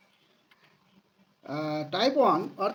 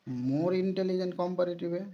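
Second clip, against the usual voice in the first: slow dictation; much slower than usual. Shown as a demonstration. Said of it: "slow dictation".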